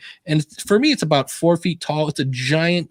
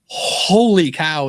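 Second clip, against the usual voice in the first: long drawn-out, slow exclamation; mock-stunned and very slow; retold amazement; much slower than usual. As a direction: stretch out the awe. Retells amazed reaction to podcast.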